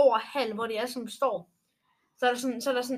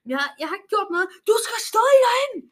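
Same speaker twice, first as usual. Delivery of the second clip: higher and louder, rising to a yell; retold shouting; 9 semitones higher, 8 dB louder than usual. Pupil protesting innocence to the teacher, rising to a shout. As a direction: snap back a heated protest. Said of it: "og så så jeg bare sådan".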